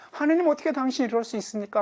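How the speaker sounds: mock a believer railing at God; imitated angry outcry. Believer angrily demands how God could do this, a voiced outcry. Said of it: "라고 화를 내면".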